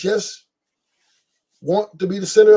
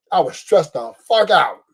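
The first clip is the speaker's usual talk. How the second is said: slower, laughing through it; laughing repeat. Real, not acted. Telling the crowd about Dodgers stress, slow and laughing. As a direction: laugh as you say it again.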